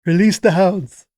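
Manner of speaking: lightly voiced scheming old boss; Mr. Burns. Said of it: "With your Mister Burns fingers".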